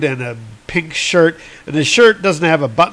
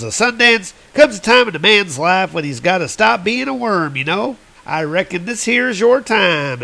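higher, folksy cowboy henchman; drawling henchman; 5 semitones higher than usual. Retold or imitated. Henchman quote.

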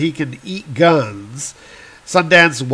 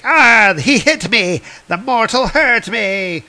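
wounded god's whine; 8 semitones higher than usual. Acted. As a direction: yelp like a vain god who got hurt. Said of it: "And Loki's like".

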